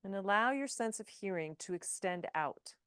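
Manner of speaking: measured yoga nidra guidance with long pauses; guided meditation. Acted. Yoga teacher settling the class into stillness, guided meditation. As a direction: lead them gently into rest, leaving space between phrases.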